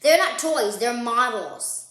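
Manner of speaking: a touch of an indignant brother; protesting brother. Acted. Brother defending his dinosaur models to Sister, mild protest. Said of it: "Brother protested".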